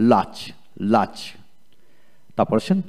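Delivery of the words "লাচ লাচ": লাচ with no R before the CH; silent R. Shown as a demonstration. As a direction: model লাচ with an A vowel going straight to CH. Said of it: "আর উচ্চারণ তো হবে না". (লাচ, আর অনুচ্চারিত রেখে)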